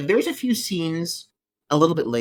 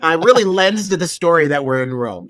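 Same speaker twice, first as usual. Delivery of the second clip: sarcastic; 3 semitones higher, 7 dB louder than usual. Acted. Mocking the Rome scenes.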